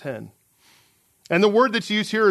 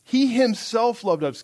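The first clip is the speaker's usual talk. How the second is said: "himself" pressed with extra emphasis, pitched higher; stress on HIMSELF; 4 semitones higher than usual. Shown as a demonstration. Preacher repeats the phrase for extra emphasis, stressing "himself". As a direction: raise the pitch and punch "himself". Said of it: "an extra emphasis there".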